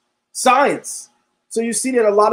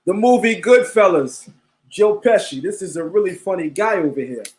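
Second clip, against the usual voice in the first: fake Italian accent. Streamer explaining his Goodfellas joke to viewers, fake Italian accent. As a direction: play up a mock-Italian movie voice. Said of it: "In my fake Italian voice".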